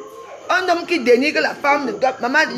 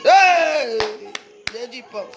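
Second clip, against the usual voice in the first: calling out; much slower than usual. Acted. Calling out Lady Boss.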